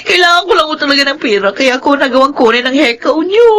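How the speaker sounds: weepy confession, begging forgiveness; a guilty maid begging her mistress for mercy; tearful plea. Acted. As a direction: plead through tears. Caught maid confesses and begs.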